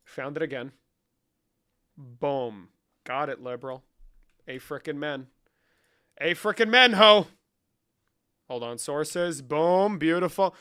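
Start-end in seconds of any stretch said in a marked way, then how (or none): 6.2-7.3 high, hollered amen; rousing mock-preacher shout; loud amen cheer.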